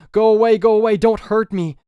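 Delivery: put-on a child's wild shriek in the dark; terrified scream. A narrator's reading. Ghost child screams at the intruder, terrified shriek. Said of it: "it screamed".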